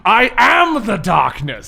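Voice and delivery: slow, dramatic villain line; villain proclamation. Acted. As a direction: land it slowly, with weight. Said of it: "Oh, that's pretty good".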